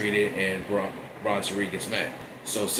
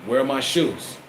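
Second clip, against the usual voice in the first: slow, pressing demand into the mic; mild mock demand for the shoes; demanding Roman. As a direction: lean on where, menacing. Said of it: "grab that microphone and say".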